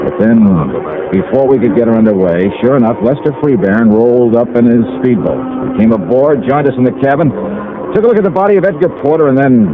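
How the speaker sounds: brisk first-person detective narration; hard-boiled narrator voice; story narration. A narrator's reading. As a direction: tell it like a radio private eye. Narration continues.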